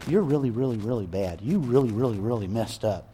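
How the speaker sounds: a hint of a weary scolding father; scolding God. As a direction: play the nagging judge people imagine. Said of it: "most people expect God ... to say".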